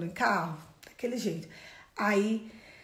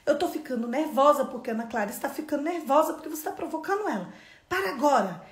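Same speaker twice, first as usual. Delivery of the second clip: imitated cross mother, higher and louder; retold scolding; 5 semitones higher, 3 dB louder than usual. Mother scolding her son fighting in the car, retold sternly. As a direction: tell off a small boy, firm and insistent. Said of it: "você vai dar uma bronca em menino".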